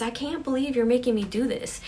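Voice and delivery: mildly acted panic, aimed at friends; freaking out. Sarah blaming friends for the séance, freaking out. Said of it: "Sarah just start freaking out".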